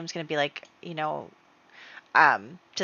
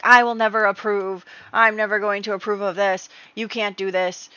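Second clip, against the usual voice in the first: louder, slightly raised indignant refusal; mock furious Earl; 2 semitones higher, 4 dB louder than usual. Earl refusing the marriage, mock angry. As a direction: refuse it with hammed-up outrage. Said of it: "the Earl is basically like".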